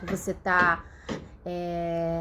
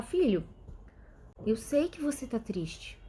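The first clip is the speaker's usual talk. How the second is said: soft soothing; 3 semitones higher, 5 dB quieter than usual. Pretend. Parent soothing crying child.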